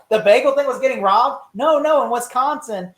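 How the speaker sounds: loud, high incredulous imitation; mock disbelief. Retelling the bagel robbery mix-up, high and incredulous. Acting out funny scene's dialogue.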